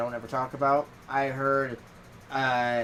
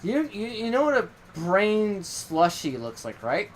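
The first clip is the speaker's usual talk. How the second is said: higher and slow, teasing god voice; imitating Loki; 7 semitones higher, slower than usual. Loki teasing the narrator about brain slush, high and slow. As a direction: spell it out slowly like a smug god. Loki's reply in retold chat.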